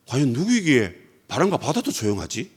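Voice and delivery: wide-eyed, half to themselves; hushed amazement. Acted. Disciples stare at each other, softly awed. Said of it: "눈이 희둥그레진 상태에서".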